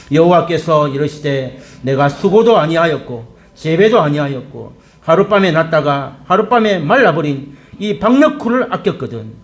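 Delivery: measured, rhythmic read-aloud; steady, declaimed Bible verse; congregational scripture reading. Real, not acted. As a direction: lead a congregation reading verse together, phrase by phrase.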